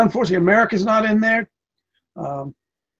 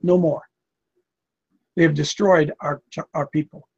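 very kindly; 4 semitones lower than usual. Retold or imitated. South African gentleman pleading with American visitors, very kindly. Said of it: "Very, very kindly, he said".

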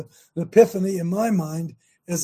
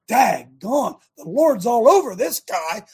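louder, amazed; awed inner exclamation; 6 dB louder, slower than usual. Retold or imitated. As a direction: marvel out loud at him. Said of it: "I thought".

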